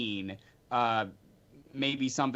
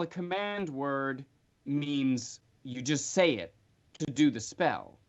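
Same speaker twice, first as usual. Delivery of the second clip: ordinary talk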